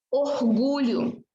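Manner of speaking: slow "orgulho" with the R as a throaty h; regional guttural R. Shown as a demonstration. Teacher shows how some regions say it, guttural R. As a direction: drag out the aspirated R in "orgulho". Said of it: "Mas é regionalismo".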